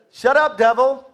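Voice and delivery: Jesus rebuking. Acted. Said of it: "And Jesus responded and said".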